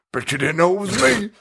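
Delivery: high, hammy reveal breaking into laughter; Robert Englund. Acted. Mocking an actor who plays himself, hammed-up. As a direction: climb into a gleeful mock unmasking. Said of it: "it's still Robert Englund being like".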